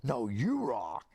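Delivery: slow, drawn-out mock yell; yelled back. The speaker to a fan, drawn-out mock yell back. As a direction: stretch it out as a returned shout. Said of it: "he yelled back".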